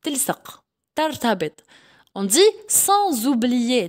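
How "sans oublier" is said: "sans oublier" joined as "san-zoublier"; teacher's clear "sans oublier", final S buzzing into the vowel; liaison in Z. Shown as a demonstration. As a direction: link "sans oublier" with a voiced Z. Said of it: "Donc ça, c'est Z".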